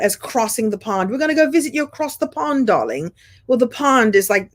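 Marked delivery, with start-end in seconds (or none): 1.1-3.1 put-on British accent. A Brit promising a visit across the pond in light British accent. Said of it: "the Brits refer to coming to America".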